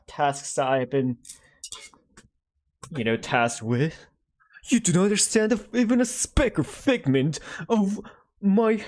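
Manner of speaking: hammed-up English father scolding, pitched high; English-accented father. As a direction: rant at your child in a pompous English accent. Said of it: "say father in, like, an English accent".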